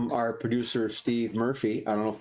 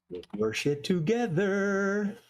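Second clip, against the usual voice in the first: George Carlin; 7 semitones higher, slower than usual. Retold or imitated. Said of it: "George Carlin".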